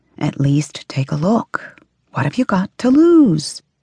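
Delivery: whispered. A narrator voices a mother's voice inside a woman's head, whispered. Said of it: "her mother's voice whispered".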